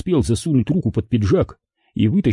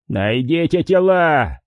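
drawn-out, higher-pitched command; understated roar, slow and raised in pitch; angry roar; 5 semitones higher, slower than usual. A narrator's reading. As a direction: stretch the order out in restrained fury. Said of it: "взревел Харрисон".

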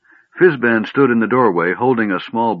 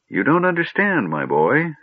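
gentle; 8 semitones higher than usual. A narrator's reading. Old mage explaining to young Tas, gently. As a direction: correct him kindly. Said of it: "Fizban said gently".

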